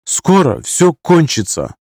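slow, firm, high and decided; firm and resolute. Acted. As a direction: say it with final resolve. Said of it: "неожиданно твёрдо и решительно произнесла". (твёрдо и решительно)

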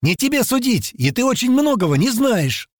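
high-pitched, heated rebuke; sharp retort. Acted. Girl telling her accuser off, sharp retort. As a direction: put him sharply in his place. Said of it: "резко ответил ему Тила".

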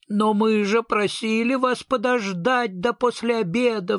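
high, pleading king's voice; a lightly voiced pleading king. A narrator's reading. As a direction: beg him to have waited. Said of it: "взмолился самодержец".

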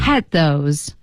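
"had those" with the z of has swallowed; eased pronunciation. Shown as a demonstration. Teacher showing a smoother link, "had those" without the z. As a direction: glide from a clipped "had" straight into "those". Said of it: "要轻轻处理".

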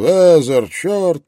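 loud, high anguished roar; detective roars at his shot partner. A narrator's reading. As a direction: bellow the fallen partner's name. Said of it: "Клеменс взревел".

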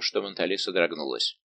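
ordinary delivery, nothing marked

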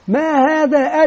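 lightly acted teacher's question; teacher quizzing pupils. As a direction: prompt the class for an answer. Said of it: "وأبدأ أقدم المعلومة من خلال أسئلة".

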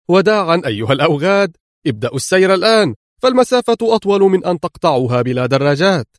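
quick, high, gloating farewell; mocking taunt. Villain mocking stranded foes as he leaves, gloating. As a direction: rub it in as you ride off.

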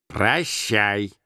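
dismissive repeated farewell; drawn-out goodbye from an unyielding uncle; холодное прощание. A narrator's reading. Scrooge repeats his dismissal. (упрямо выпроваживая)

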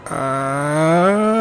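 mock yelp of a boy tumbling down; falling yell. Мальчик падает из окна в кусты, протяжный испуганный крик. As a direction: cry out as you fall.

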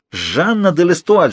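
high, drawn-out exclamation; crying out. A narrator's reading. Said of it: "вскричал Фалуа". (протяжный высокий вскрик)

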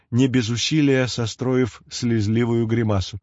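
usual speaking voice

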